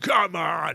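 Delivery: loud whooping, energetic crowd-rousing delivery. Imitating Phil Parkinson whooping up the crowd: Phil Parkinson impression. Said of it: "Phil Parkinson whooping up the crowd".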